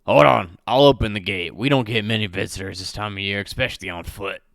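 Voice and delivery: guard voice. Acted. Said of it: "he replies".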